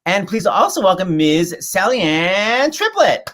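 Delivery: drawn-out announcer flourish; showy introduction. Real, not acted. Host welcoming a guest onto the show, showy introduction. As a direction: stretch the guest's name out like an announcer.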